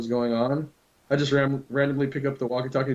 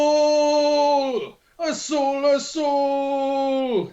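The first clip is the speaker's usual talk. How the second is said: high, loud sports-style yell of Gol; taunting workers over the walkie-talkie, high loud shout; mock shout; 12 semitones higher, 4 dB louder, much slower than usual. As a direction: belt it out like a soccer announcer.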